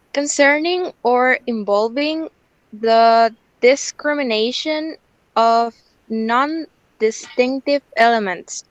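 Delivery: careful, halting read-aloud with pauses between phrases; well pronounced. Real, not acted. Student reading the transcription aloud for the teacher, well pronounced. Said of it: "Very well pronounced".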